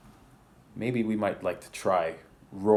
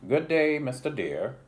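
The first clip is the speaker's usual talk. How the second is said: higher, louder polite tiger greeting; bored tiger voice; 7 semitones higher, 4 dB louder than usual. Acted. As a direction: greet the deer with strained politeness. Voicing Mister Tiger greeting.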